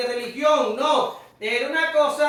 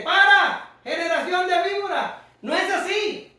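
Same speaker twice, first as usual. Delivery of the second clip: sharp, higher rebuke; Juan el Bautista reprendiendo; 5 semitones higher than usual. Retold or imitated. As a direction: cry out the rebuke like an angry prophet. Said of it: "Igual el bautista dice". (el Bautista regañando a la gente, con voz alzada)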